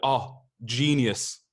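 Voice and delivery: slow, drawn-out admiring gasp; mock awe. Host imitating people impressed by a British accent, mock awe. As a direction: gush slowly, as if hugely impressed. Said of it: "people are like".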